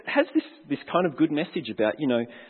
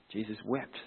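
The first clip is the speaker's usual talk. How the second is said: barely audible; 4 semitones lower, 14 dB quieter than usual. Real, not acted. Repeats verse even softer.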